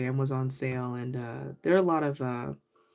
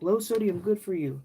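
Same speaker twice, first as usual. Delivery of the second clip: higher, lightly imitated Asian accent; older Asian lady's accent; 4 semitones higher than usual. Older Asian lady advising a shopper on Spam, lightly imitated accent. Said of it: "with her accent".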